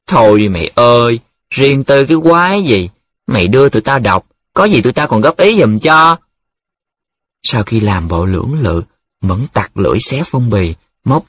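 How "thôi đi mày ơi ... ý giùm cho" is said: lightly mocking, raised-pitch wheedle; drawn-out scoff. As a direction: scoff at a friend's secrecy. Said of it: "Nhiệm dài giọng". (dài giọng chế giễu)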